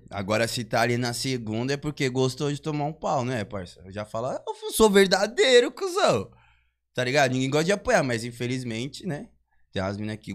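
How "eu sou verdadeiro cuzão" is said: high laughing brag; cocky boast. Retold or imitated. Bragging quote with a laugh.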